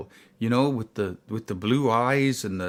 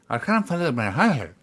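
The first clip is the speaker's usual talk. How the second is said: imitated Northern Irish woman, a little higher; thick Northern Irish accent; 4 semitones higher than usual. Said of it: "she said it with such an accent, it was so thick".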